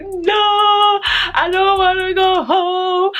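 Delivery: put-on high, slow, whiny child's plea; mock whiny begging. Child begs mom to let her stay the weekend, high and whiny. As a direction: beg like a crying little kid.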